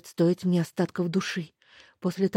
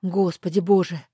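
plain reading voice

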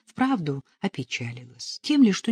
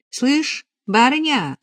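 put-on high, excited girl's voice; eager, bright-eyed announcement; bursting in with news; 6 semitones higher, 5 dB louder than usual. A narrator's reading. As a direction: burst out with breathless gossip, raised pitch. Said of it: "вбежала в Парашину келью Надежа".

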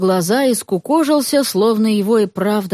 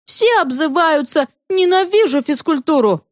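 lightly voiced protesting girl; 7 semitones higher than usual. Girl protests at school scolding.

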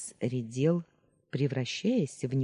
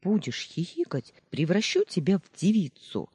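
playful threat; 4 semitones higher than usual. Acted. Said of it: "пригрозила мужу".

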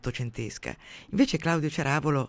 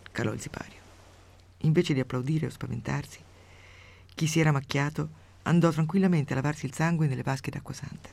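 steady storyteller's reading voice; measured radio story reading; story narration. A narrator's reading. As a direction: read the tale out with dry relish. Reads a grotesque story aloud.

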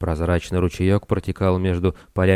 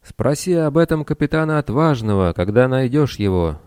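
put-on young hero voice; 6 semitones higher than usual. A narrator's reading. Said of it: "посоветовал Тесей".

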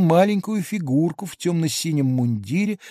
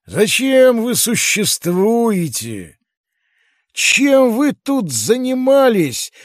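slow and rising louder, a puzzled giant; giant's questions; 6 semitones higher, 5 dB louder, slower than usual. A narrator's reading. Giant questioning the little people, slow then louder. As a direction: build from slow wonder to loud complaint. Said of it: "заговорил опять Кадльс".

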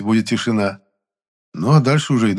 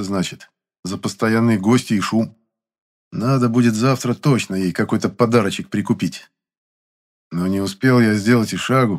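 ordinary delivery, nothing marked

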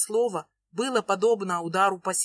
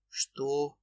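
low and softer, stunned; sunken voice; 6 semitones lower, 6 dB quieter than usual. A narrator's reading. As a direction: Ilya stunned, voice sinking low. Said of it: "просевший голос".

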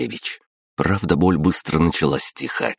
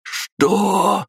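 изумлённо. A narrator's reading. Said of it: "изумлённо прохрипел".

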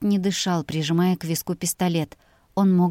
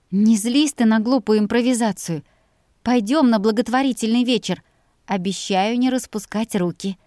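higher, coaxing plea; coaxing young woman; 3 semitones higher than usual. Acted. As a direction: persuade him sweetly. Mira coaxing Jack to come.

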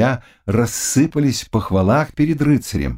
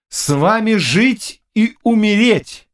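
fervent vow; 12 semitones higher, slower than usual. Acted. Knight's devoted vow.

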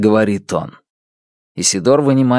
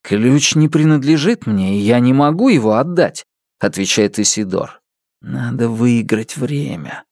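put-on lightly raised earnest young man; 3 semitones higher than usual. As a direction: speak as a guarded young thief. Narrator voices Isidore.

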